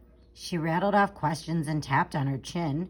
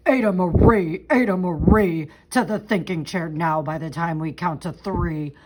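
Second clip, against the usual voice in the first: loud stern calling of her name; a parent calling the child to order; scolding parent; 2 semitones lower, 6 dB louder than usual. Acted.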